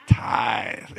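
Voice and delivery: "Tithe" said through a wide grin; said smiling. Shown as a demonstration. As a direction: show your teeth and say "Tithe". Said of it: "Everybody smile when I say tithe now".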